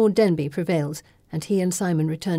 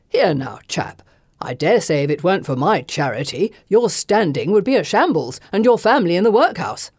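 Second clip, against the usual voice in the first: starts in a hushed hiss-like hush then swells louder to the end; sneering gentleman; 5 dB louder than usual. A narrator's reading. Gentleman threatening a debtor, hushed then loud. Fenton voiced, building threat.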